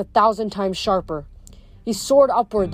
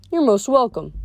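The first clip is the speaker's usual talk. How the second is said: pleasantly obliging, pitched up; agreeable; 4 semitones higher than usual. A narrator's reading. Death accepts Frank's sarcastic thanks, agreeably. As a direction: answer as if truly thanked. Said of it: "Thanatos said, agreeably".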